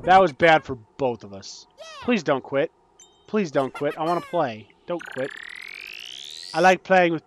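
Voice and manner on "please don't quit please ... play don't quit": quiet pleading. Real, not acted. Gamer begging an opponent to stay in the game, quiet pleading. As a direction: plead under your breath. Begs other player to stay.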